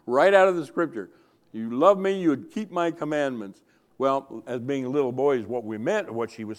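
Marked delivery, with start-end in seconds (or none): 0.1-1.1 laughing. Real, not acted. Laughing remark. 1.5-3.6 stern mother. Retold or imitated. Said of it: "she would sternly look at us and say".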